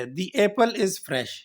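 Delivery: very slow demo, "the" said as long "dee" before "apple". Shown as a demonstration. Teacher models "the" before a vowel sound, very slowly. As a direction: stretch "the apple is fresh", with "the" as "dee". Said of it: "تو اس میں ہم دی پڑھیں گے".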